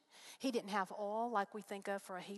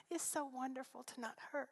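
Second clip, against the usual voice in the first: softer, still near tears but voiced; tearful, half voiced; 3 semitones higher, 4 dB quieter than usual. Real, not acted. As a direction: say it again with voice coming back through tears. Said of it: "I began to cry again".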